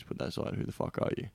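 hushed, intense whispered challenge; dropped to a whisper. Retold or imitated. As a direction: drop to an intense unvoiced whisper. Quoting himself setting things aside.

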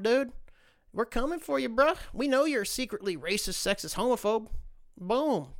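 lightly voiced gleeful attacker; mock cancel mob. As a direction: ham up a gloating troll.

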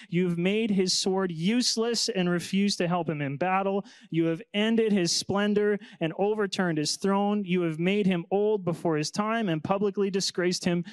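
earnest Bible reading, a touch lifted; scripture reading. Acted. Pastor reads Ethan's psalm to the class, earnestly. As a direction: read the psalm as a heartfelt prayer.

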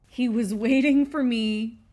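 whispered conspiratorially, words breathed out. Real, not acted. Whispering to the viewers about her intense dog. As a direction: lean in and whisper it like a secret. Repeats line, then whispers it.

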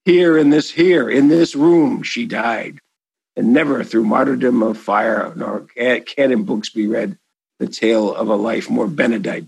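poem recitation. Acted. Recites the sonnet.

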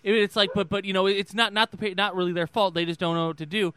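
lightly imitated politician losing the thread; tumbling false starts and fillers in a rambling debate cadence; Joe Biden. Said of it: "that was exactly what Joe Biden said".

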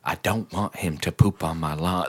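put-on low, quiet old-lady voice; mocking the neighbor. Replaying the neighbor's line, low soft mimicry. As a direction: imitate her mumbling demand.

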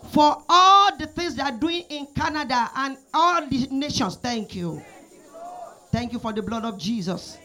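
preacher praying aloud over the church, rising and falling; fervent prayer. Real, not acted. Prayer leader praying over the congregation, fervent prayer voice. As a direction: pour it out like an earnest prayer leader.

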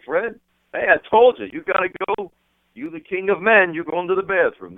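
high-pitched, emphatic reassurance; retold hyping up. Friend telling Freddie to go ahead, high-pitched excited urging. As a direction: talk him up like royalty. Acting out himself hyping up Fred.

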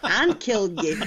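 mock fatherly warning, laughter around it; dad explaining. Dad explains birds and bees to his child, mock warning. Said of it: "sounds like my dad explaining Birds and Bees".

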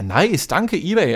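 slow, dry sarcastic thanks; drawn-out ironic thank you. Real, not acted. Thanks eBay after being blocked.

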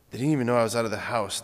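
rushed retelling of "They didn't even know I was out of the house"; quick second take of the line; fast repeat. Retold or imitated. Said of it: "he goes".

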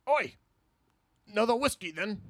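put-on botched stage Irish accent; bark-free, lightly put-on Irish drinker; bad Irishman. The speaker auditioning as Bad Irishman, in a botched Irish accent. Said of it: "reading for the part of Bad Irishman".

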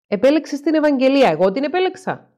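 protest, voice jumping up in disbelief; incredulous. Acted. Stelios indignant at therapist.

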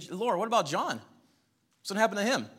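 pleading Peter. Acted. Peter asks Jesus about John.

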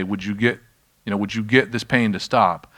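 mild, tentative request, retold; asking. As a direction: put it as a modest request for help. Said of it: "there's a difference between asking".

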